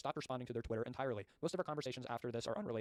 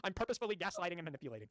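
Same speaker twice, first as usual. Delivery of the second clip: higher, scornful requote; mocking repeat; 5 semitones higher than usual. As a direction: throw the words back in disbelief. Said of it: "Just say you're employing the gray rocking tactic".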